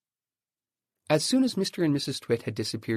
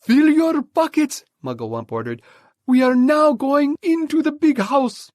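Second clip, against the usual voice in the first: commanding order; 12 dB louder than usual. Acted. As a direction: order the troop into action. Mugglewump ordered.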